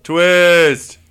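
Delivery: loud hammed-up surprise; mock shock. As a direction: exclaim the twist theatrically. Mock shock at game twist.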